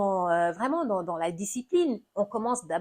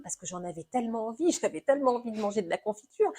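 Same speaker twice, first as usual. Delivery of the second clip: imitating child; faster than usual. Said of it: "l'enfant va peut-être répondre".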